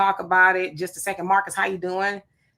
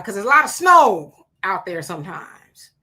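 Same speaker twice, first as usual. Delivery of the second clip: joking whisper; 5 dB louder than usual. Real, not acted. Joking aside about Utah snow.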